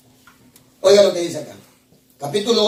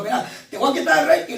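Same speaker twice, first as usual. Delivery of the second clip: stern shout; 7 semitones higher than usual. Retold or imitated. God's verdict retold.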